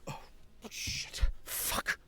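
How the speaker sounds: hushed whispering character voice; breathy panicked whisper, mostly unvoiced; Sint's voice. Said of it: "May I have a voice request of Sint".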